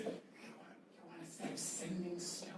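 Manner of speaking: Yanti voice. Acted.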